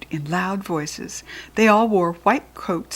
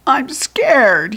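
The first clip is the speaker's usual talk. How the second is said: ordinary delivery, nothing marked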